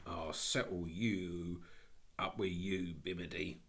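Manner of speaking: lightly voiced stern constable; drawn-out warning from an annoyed policeman; threatening policeman.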